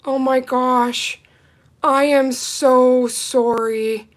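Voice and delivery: slow, heartfelt sorry; drawn-out shocked apology; sincere apology. Real, not acted. Shocked by sad viewer comment.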